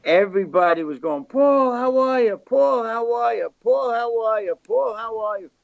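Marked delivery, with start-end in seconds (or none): 1.2-5.5 higher, mock-eager hellos, over and over; gushing greetings. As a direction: imitate fawning diners greeting a star. Everybody greeting Paul in restaurant.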